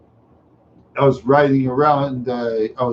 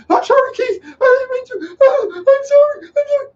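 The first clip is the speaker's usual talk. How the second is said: shrieked, very high sobbing plea; mock crying apology; 3 dB louder than usual. Scared boy begs bully for mercy, imitated high wailing. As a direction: wail it like a hammed-up crying kid. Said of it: "I start crying".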